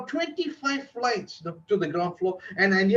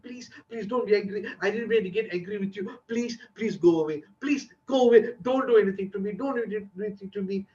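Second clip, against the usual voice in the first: begging; faster than usual. Retold or imitated. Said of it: "I begged her and begged her".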